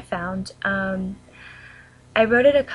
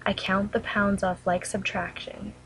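measured poem reading with long pauses between lines; poem recitation. Real, not acted. Reading her own poem about an eating disorder to viewers, solemn recitation.

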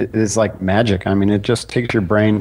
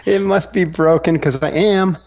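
put-on higher, slower, coy girl in a joke; playful girl voice; 8 semitones higher, slower than usual. Punchline setup, the girl teasing the Navy seal, mildly coy. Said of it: "She goes".

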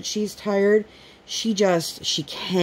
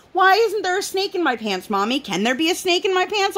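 put-on child voice; 13 semitones higher than usual. Daughter voiced in mom's story.

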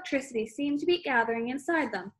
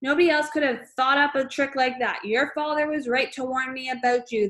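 raging; 4 dB louder than usual. Acted. Trunchbull raging.

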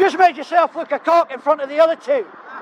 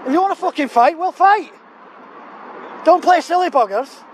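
raised, heated dare to fight; angry challenge; 4 semitones higher than usual. Real, not acted. To the worker who threatened him, an angry raised dare. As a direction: throw down the challenge, fed up and furious.

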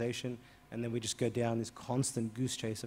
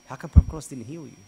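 sudden louder question; blunt loud question; 12 dB louder than usual. Retold or imitated. Priest bluntly asks the blind man, loud. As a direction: blurt it out boldly.

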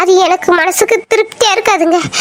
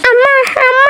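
put-on high little child calling for mother; baby voice; 4 semitones higher than usual. She mimics the toddler calling her mother, in a high child voice. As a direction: pipe up like a toddler calling mama.

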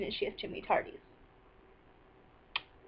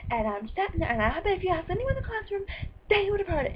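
heated accusation, climbing higher and louder; retold losing it; 6 semitones higher, 4 dB louder than usual. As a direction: argue back, voice rising as it goes. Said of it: "I didn't, so I just lost".

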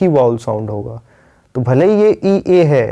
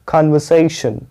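कन्वर्सेशन drawn out on the third syllable से; syllable stress demo; slower than usual. Shown as a demonstration. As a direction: linger on से in कन्वर्सेशन, then drop. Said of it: "तो यहाँ पे हमें रुकना है".

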